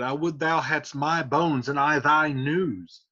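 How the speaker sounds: Juliet begging, pitch climbing on speak; mild urgent young girl; pleading Juliet. Acted. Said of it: "Juliet said".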